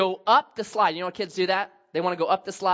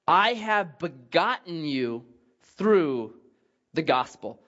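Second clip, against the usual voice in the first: scripture reading; slower than usual. Acted. Reads scripture aloud.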